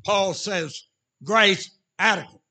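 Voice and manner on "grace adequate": loud declaration. Acted. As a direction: punch out both words, louder. Sermon punchline.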